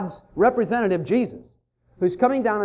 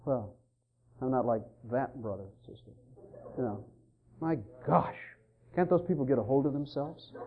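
smug self-righteous quote; 9 semitones lower, 11 dB quieter than usual. Retold or imitated. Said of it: "You go".

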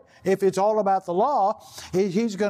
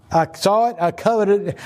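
emphatic; 4 dB louder than usual. Real, not acted. Preacher repeats Achan's words, louder.

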